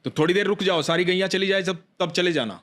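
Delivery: put-on a young boy cautioning an old man about the cows; child warning. A narrator's reading. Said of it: "बोला".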